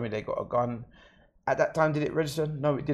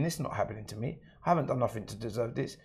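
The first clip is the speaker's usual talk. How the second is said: inner thought; 5 dB quieter, faster than usual. Retold or imitated. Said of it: "I'm thinking".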